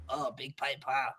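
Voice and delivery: very soft, low mock deadpan; hushed, low aside in character; understated remark. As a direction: drop it low and small. Acting understated character line.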